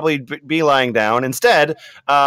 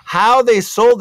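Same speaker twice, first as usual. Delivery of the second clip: Latina mom voice. Acted. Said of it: "more Latina Mom coming in".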